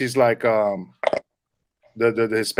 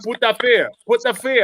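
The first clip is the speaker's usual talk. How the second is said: higher-pitched Jamaican lady's accent; 8 semitones higher than usual. Shown as a demonstration. Re-explaining the joke to friends, Jamaican accent. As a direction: repeat it with a put-on Jamaican accent. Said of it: "a Jamaican lady with her accent".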